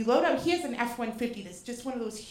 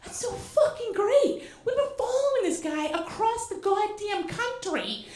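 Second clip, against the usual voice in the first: laughing crying joy; 7 semitones higher than usual. Retold or imitated. Overjoyed fan laughing and crying.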